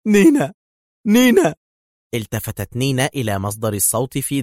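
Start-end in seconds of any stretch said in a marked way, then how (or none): 0.1-0.5 much higher, louder call of نينا; shouting a name. A narrator's reading. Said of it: "فهتف". 1.1-1.5 higher and louder call of نينا; urgent loud call; urgent shout. A narrator's reading. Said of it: "فهتف".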